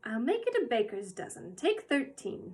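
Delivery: cheerfully. Acted. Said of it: "said Missus Corey cheerfully".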